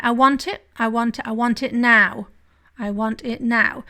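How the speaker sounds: a hint of a foot-stamping child; toddler tantrum. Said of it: "a toddler in a shop stamping my foot".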